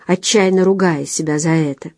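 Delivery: ordinary delivery, nothing marked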